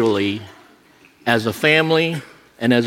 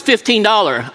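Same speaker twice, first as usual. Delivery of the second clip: higher-pitched mock East Asian accent; put-on East Asian accent, pitched up; 7 semitones higher than usual. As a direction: imitate a masseur in broken East Asian-accented English. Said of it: "I'm not making fun of Orientals".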